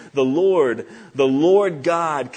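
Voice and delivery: loud, weighty proclamation; proclaiming. Retold or imitated. Preacher reading God's proclamation to Moses, loud proclaiming. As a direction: proclaim it out, drawing out the divine name. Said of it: "and proclaimed".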